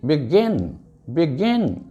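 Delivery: बिगिन with the weight on गिन; short बि, then a stressed गिन in बिगिन; stress on second syllable. Shown as a demonstration. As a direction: say बिगिन as be-GIN. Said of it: "इसमें गिन पे जोर है".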